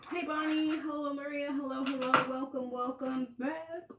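talking around a hard candy; candy in mouth. Real, not acted. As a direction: speak with candy in your mouth. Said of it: "I have candy in my mouth".

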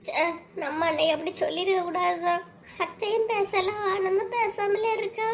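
high, crying voice, holding back sobs; tearful. Acted. Wife lamenting to her husband, tearfully. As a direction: speak through tears, upset. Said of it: "நீங்க வந்து அழுதுட்டு இருக்கா".

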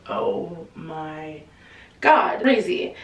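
retold disbelief, split by a pause; mock stunned. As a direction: draw out a mock shocked reaction. Richard reacts to the burns.

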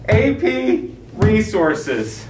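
very slow, each word set apart; exasperated emphasis. Acted. Principal pressing a teacher to comply, slow and exasperated. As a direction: drag out A P RESOURCES for emphasis.

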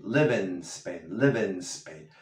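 Live in Spain with in glued to Spain, slow; linked. Shown as a demonstration. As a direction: run in into Spain. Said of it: "Pega la N de la S".

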